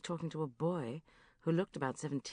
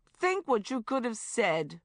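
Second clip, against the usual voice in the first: regretful Shaz; 6 semitones higher, 5 dB louder, slower than usual. A narrator's reading. Shaz's regret.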